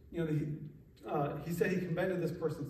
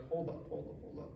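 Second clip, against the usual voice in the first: hushed Jesus; 9 dB quieter than usual. Retold or imitated. Jesus voiced in retelling.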